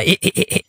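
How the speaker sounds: high, staccato "heh-heh" chuckle; mocking snicker. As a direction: snicker at someone's expense. Chuckles after mocking Gopal's wife.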